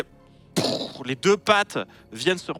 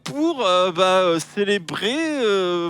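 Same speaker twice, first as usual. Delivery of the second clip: much higher, louder, fawning chatter; high nervous voice; 8 semitones higher, 3 dB louder than usual. Acted. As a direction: babble nervously to please the dragon.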